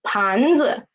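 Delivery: teacher's model 盘子, 子 stepping down after rising 盘. Shown as a demonstration. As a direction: lift 盘, then drop a light 子. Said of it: "The neutral tone is lower too".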